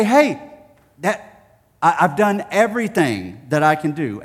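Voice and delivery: put-on bored boy pleading; whiny kid. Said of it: "I would say".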